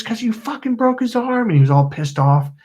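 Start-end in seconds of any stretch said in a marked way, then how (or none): 0.0-1.5 imitated angry yell. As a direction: act out a pissed-off kid accusing a friend. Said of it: "Marlon yelled at me".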